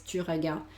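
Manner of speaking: "tu regardes" with the final S silent. Shown as a demonstration. Teacher showing a student the silent ending, silent S in "regardes". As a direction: leave the S off the end of "regardes". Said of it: "Ya no suena cuando dices".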